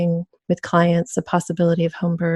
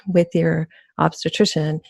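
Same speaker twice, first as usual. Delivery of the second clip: laughing. Real, not acted. Midwife contrasting short obstetrician visits with her own, laughing. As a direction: laugh breaking into the phrase. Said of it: "I shouldn't laugh".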